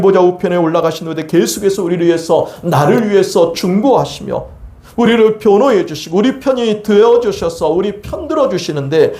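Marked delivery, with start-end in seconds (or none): none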